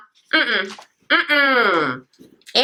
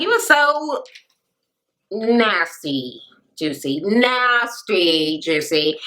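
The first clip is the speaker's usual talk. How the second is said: mock disgust; 4 semitones lower, much slower than usual. Mock disgust at Juicy in retold reply.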